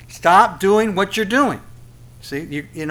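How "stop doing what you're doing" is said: slow, louder preacher's order; a pulpit command, raised; firm command. Acted. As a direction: tell them to stop, firmly and slowly.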